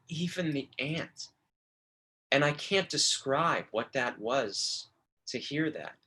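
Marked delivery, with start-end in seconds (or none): 0.1-1.3 softer, choked "Even the ant." with stress on "Even". Retold or imitated. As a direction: say "Even the ant." as if the throat tightens. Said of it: "he gets choked up as he says it".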